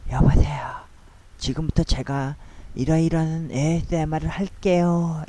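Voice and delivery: breathy whispered ASMR greeting. Shown as a demonstration. Vlogger demonstrating to viewers how ASMR should sound, whispering. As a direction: whisper it like an ASMR host opening a video. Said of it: "속삭여야 되잖아요".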